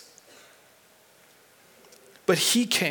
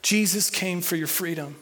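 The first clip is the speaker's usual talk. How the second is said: telling a neighbour; 2 semitones lower, 3 dB quieter than usual. Shown as a demonstration. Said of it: "Tell someone next to you".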